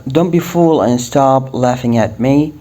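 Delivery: slow, careful model sentence; slow English example; slow teaching read. Shown as a demonstration. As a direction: spell it out slowly for learners. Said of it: "ناخذ مثال".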